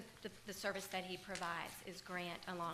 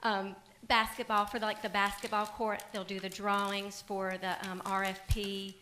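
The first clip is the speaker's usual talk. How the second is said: louder, projecting to be heard; speaking up; 7 dB louder than usual. Real, not acted. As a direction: raise your voice for the room. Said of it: "I can barely hear you".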